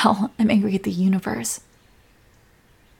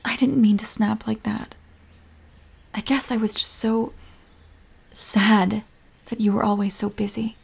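hushed, sincere regret; tender apology. Acted. Comforting crying partner, apologising.

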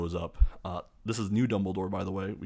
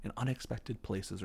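slow, slightly raised sage voice; Dumbledore; 4 semitones higher, 4 dB quieter than usual. Retold or imitated. Headmaster addressing students by candlelight, slow sage voice. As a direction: deliver wisdom slowly, in a put-on voice. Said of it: "and he goes".

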